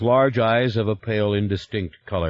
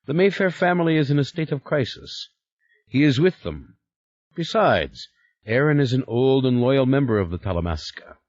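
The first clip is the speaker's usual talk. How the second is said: stern Stoloff; 5 semitones higher than usual. Acted. Stoloff lecturing Yuri on the order's obedience, firm. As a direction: remind him who's in charge.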